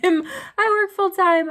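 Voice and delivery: high, slow, laughing "I work full time"; laughing exasperation. Real, not acted. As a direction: laugh through the complaint. Laughs at own busy life.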